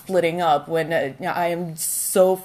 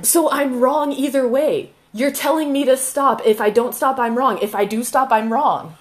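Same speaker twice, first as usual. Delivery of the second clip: exasperated; 5 semitones higher than usual. Real, not acted. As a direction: protest that every choice is wrong, voice rising. Heated couple's argument.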